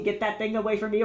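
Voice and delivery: Mike Wazowski impression. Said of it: "it's like the Mike Wazowski".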